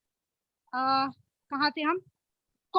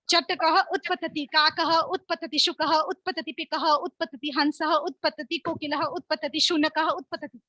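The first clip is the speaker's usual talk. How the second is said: slow game calls; slower than usual. Shown as a demonstration. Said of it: "तो मैं जल्दी जल्दी बोलूंगी".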